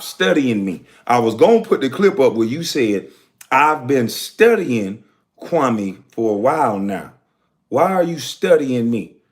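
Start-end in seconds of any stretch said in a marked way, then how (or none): 3.5-7.1 mock quote. Quotes the critic studying him.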